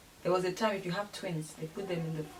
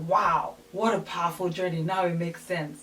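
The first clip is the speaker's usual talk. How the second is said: empathetic awe; 4 dB louder than usual. Retold or imitated. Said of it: "They'll be like".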